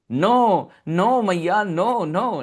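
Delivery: put-on high, loud little boy's plea; pleading child. Child Krishna pleading with mother Yashoda, high and insistent. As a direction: beg like a small boy caught out.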